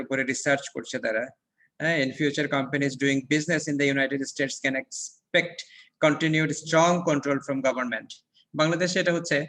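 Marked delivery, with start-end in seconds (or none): 1.8-8.1 slow textbook reading. Acted. Reads textbook passage aloud.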